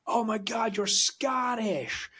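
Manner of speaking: high, drawn-out excited squeal; excited American stranger. Retold or imitated. American stranger thrilled to meet a Scot, excitedly gushing. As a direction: gush it high, stretching the last words. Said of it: "they were so excited".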